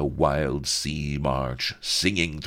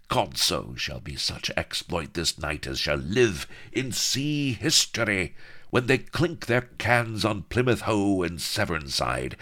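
boastful pirate captain. Acted.

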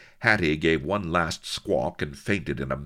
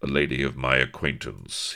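stiffly; 2 semitones lower than usual. Acted. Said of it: "he explained stiffly".

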